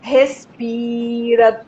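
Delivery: very slow, gentle and soothing; calm self-soothing. Retold or imitated. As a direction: ease the words out slowly, as if calming yourself. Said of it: "ele fez bem assim".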